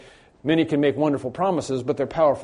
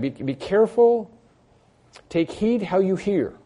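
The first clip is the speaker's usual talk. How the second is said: emphatic warning; 6 semitones higher than usual. Acted. Recalls Jesus' warning emphatically.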